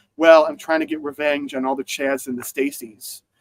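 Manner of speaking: ordinary talk, nothing marked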